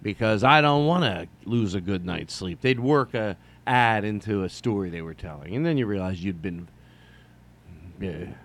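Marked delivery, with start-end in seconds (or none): 0.0-2.6 mock radio ad read. Radio host slipping an ad into a story. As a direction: imitate a radio host selling mattresses. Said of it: "They go".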